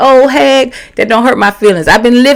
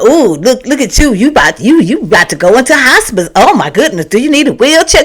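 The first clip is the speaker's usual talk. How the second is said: mock age shaming. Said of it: "Just, just age shame".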